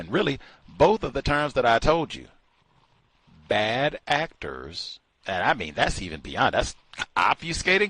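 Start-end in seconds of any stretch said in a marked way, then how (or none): none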